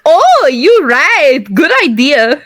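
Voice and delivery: slow, drawn-out Oh, a hint of an accent; mock Caroline voice. Fan imitating Caroline, a hint of a Jamaican-sounding lilt. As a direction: stretch the Oh lazily, lightly accented. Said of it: "Was that a Jamaican accent?".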